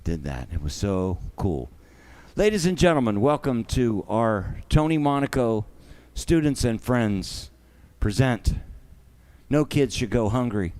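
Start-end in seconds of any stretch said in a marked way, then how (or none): 2.4-10.7 a lightly announcer-style opening. Acted. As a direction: present the show to the crowd. Opens the show like an announcer.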